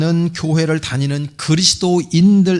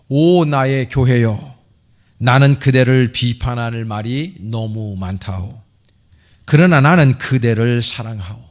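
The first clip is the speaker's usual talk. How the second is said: declaimed prose poem with measured pauses; emphatic poetic reading, phrase by phrase; solemn recitation. Acted. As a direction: recite it as an impassioned address to the church. Reads a priest's love letter to church.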